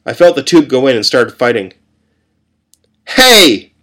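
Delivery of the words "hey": sharp high loud call; nurse shouting. A narrator's reading. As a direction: stop the patient with a yell. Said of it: "the nurse shouted".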